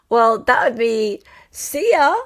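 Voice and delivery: lightly hissed snake goodbye; a hint of a slithering snake. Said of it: "That's my snake impression".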